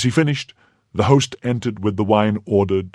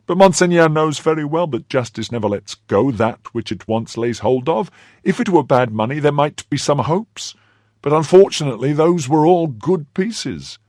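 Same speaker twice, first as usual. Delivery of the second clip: whining innkeeper; 9 semitones higher, 5 dB louder than usual. Acted. Host's higher pleading voice.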